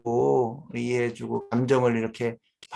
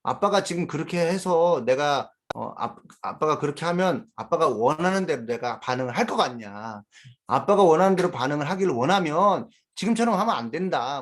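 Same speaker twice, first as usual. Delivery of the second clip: put-on lecturing child; 4 semitones higher than usual. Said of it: "막 화낼 때 아이들이 또 이런 얘기도 해요".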